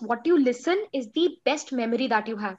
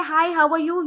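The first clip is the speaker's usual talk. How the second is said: energetic, higher-pitched hello; chirpy greeting; 4 semitones higher, 3 dB louder than usual. Shown as a demonstration. Teacher showing students how an energetic person greets, chirpy. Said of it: "You'll think I'm a very chirpy person".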